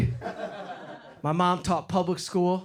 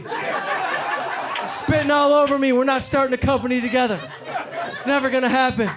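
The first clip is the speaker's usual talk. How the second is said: annoyed refusal; 3 semitones higher than usual. Retold or imitated. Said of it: "I'm like".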